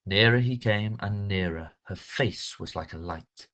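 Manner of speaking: slow, hushed, dramatic recitation; dramatic poem reading. Shown as a demonstration. Teacher reads a poem aloud to her class, slow and dramatic. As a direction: read the poem slowly, savouring each word.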